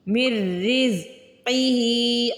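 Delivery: मिर with मीम joined straight into a doubled र, no नून sound; slow recitation, मिर रिज़्क़िही joined; merged mir. Shown as a demonstration. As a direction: slide मि into रिज़्क़िही without an n.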